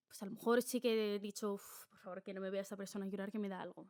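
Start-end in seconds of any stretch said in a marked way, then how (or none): 1.5-3.9 embarrassed muttered plea. Retold or imitated.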